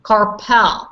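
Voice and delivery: "Carpal" with a short, unstressed "pal" ending, not "pool"; correct CARPAL. Shown as a demonstration. Teacher asks class to notice the difference, correct Carpal. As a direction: say Carpal firmly as CAR-pul, falling at the end. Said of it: "Notice the difference".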